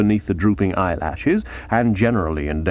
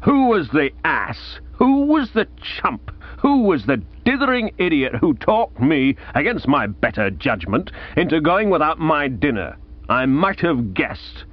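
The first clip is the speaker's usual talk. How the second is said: angry aunt; 4 semitones higher than usual. Acted. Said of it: "A sudden flame shot from her eyes".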